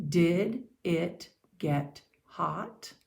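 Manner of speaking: "Did it get hot?" very slow, rising on "Did" and at the end; question tune. Shown as a demonstration. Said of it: "Let's count how many words".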